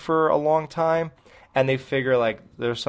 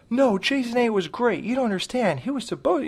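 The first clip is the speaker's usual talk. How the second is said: much higher, whiny hammed-up fanboy voice; sneering at fans who defend every sequel; mock fanboy; 9 semitones higher than usual. Co-host parodies an obsessed fanboy in a high, whiny voice. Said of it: "you know".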